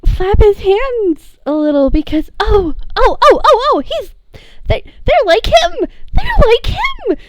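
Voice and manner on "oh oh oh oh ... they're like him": high, near-tearful gushing; gasping out happy disbelief; emotional high-pitched gush; overwhelmed joy. Acted.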